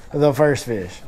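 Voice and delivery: deadpan retold repeat, falling at the end; resigned disbelief. Angler repeating his reaction to the first catch, resigned. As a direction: let "first fish" drop as a resigned statement. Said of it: "And I'm like".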